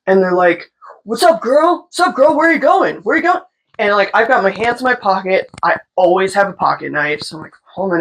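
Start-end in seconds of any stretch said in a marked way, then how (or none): 1.0-3.4 high, lilting mock catcall; imitated pushy street holler. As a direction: call out like a leering guy on the street. Acting out catcallers in alley.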